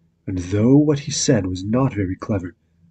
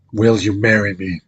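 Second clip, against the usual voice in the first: louder, mildly gruff proposal; a hint of a gruff beast asking; 4 dB louder than usual. The beast proposing to Beauty, lightly gruff and louder. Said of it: "in his gruff voice".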